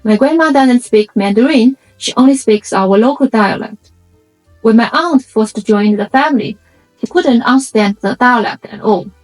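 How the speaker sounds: usual speaking voice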